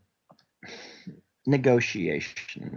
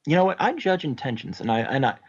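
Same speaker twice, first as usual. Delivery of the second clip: Scottish brogue; faster than usual. Acted. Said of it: "I say".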